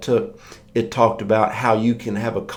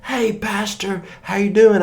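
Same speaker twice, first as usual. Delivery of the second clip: put-on kids' greeting; 10 semitones higher than usual. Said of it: "they were just like".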